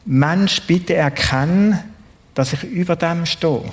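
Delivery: slow earnest plea. Acted. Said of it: "wo er da wie weit aussagt".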